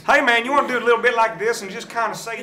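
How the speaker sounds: hammed-up laid-back American dude; loud American surfer-dude impression; American accent. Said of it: "How do I sound like Napoleon?".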